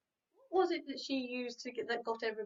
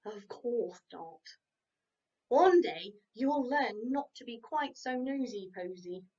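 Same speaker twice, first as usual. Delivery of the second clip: grumpy horse; 4 dB louder than usual. Acted. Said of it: "mumbled Harry".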